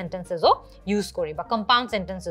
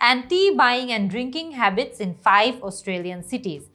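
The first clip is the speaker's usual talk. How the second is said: reads the task prompt very slowly, word by word; slow careful reading; much slower than usual. Shown as a demonstration. Teacher reading the exam prompt to students, very slow and careful. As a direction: spell out each word of the question slowly for learners. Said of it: "কি বলেছে তারা?".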